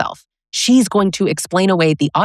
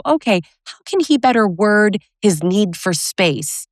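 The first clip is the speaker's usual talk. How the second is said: lightly voiced therapist, higher; a hint of a therapist's questioning; 5 semitones higher than usual. Imagined therapist asking about his wording, lightly voiced therapist. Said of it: "So the therapist might go".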